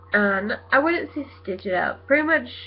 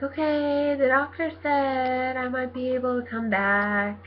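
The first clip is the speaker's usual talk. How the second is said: higher, lightly put-on phone-call voice; retold work call; 4 semitones higher than usual. She calls work with the doctor's word, retold phone-call voice. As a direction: pitch it up, as if reporting in to work.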